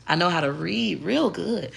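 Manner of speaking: soft, proper voice on "I know how to read real good.". Shown as a demonstration. Showing her proper voice to viewers, soft and proper. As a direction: say "real good" politely, toned down. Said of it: "I know how to do both".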